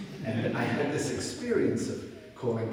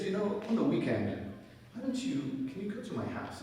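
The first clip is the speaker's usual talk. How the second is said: put-on old man asking; 9 semitones higher than usual. Bedridden old man asks favor.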